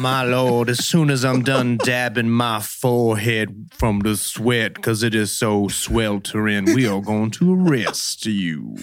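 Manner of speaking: lightly voiced slow Southern gent; a hint of a sweltering Southern gentleman; mock gentleman cop. Friend joining the bit as a sweating gentleman, mildly slow.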